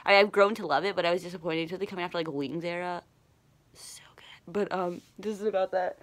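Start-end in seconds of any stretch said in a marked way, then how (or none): 3.7-4.5 whispered, barely-there swoon; hushed aside. Real, not acted. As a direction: whisper it to yourself in awe. Quiet fangirl aside while gushing.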